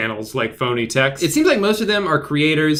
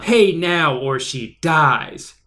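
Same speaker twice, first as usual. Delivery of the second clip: menacing kidnapper; much slower than usual. Acted. Kidnapper threat read out.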